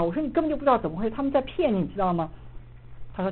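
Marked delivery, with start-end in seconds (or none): 0.2-2.3 higher, urgent scolding; retold angry warning. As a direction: warn him heatedly, pitched up. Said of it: "我就特别的生气". (着急地责备，声调偏高)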